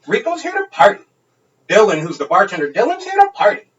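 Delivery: put-on high, giddy party-girl squeal; squeaky mock drunk girl insisting she's here to party; drunk woman. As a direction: ham up the drunk stranger's chant. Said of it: "And she was like".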